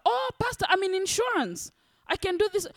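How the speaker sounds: high bright "Oh, Pastor" then quick offer; volunteer your help brightly; eager congregant. Retold or imitated.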